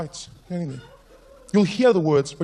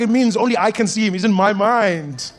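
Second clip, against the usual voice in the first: put-on earnest kid; 4 semitones higher, 5 dB louder than usual. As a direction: explain patiently. Child explaining slowly.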